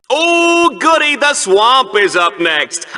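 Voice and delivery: laughing through the words, a bit slow; gleeful laughing. Acted. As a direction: chuckle with glee at what comes next. Announcer gloats at swamp.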